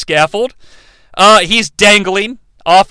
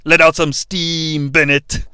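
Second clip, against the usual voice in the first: low, slow movie-villain line; a hint of a growling hero; lightly voiced action hero; 4 semitones lower, 4 dB quieter than usual. Narrator quoting Schwarzenegger in Commando, slow and low. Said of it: "He says".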